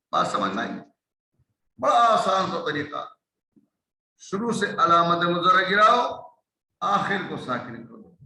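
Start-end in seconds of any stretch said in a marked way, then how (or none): 1.8-8.2 emphatic teaching. Real, not acted. Teacher stressing the easy rule.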